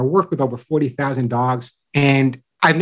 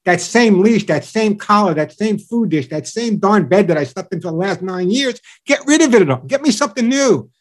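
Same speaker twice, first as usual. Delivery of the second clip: higher-pitched, playful fed-up rant; mock complaining dog; 3 semitones higher than usual. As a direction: lightly act a bored dog demanding change. Voices a bored dog's complaint.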